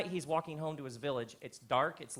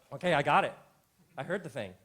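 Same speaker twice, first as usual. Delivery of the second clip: loud; 10 dB louder, faster than usual. Real, not acted. Reacting to someone.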